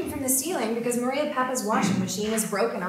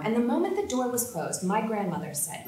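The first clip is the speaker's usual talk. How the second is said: ordinary talk, nothing marked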